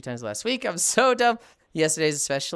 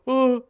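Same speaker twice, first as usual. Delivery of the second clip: short, high-pitched mock "oh"; a quick raised "oh" in imitation; imitated "oh" reaction; 8 semitones higher, 4 dB louder than usual. Teasing a friend over Wordle guesses, mock reaction. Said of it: "and you just go".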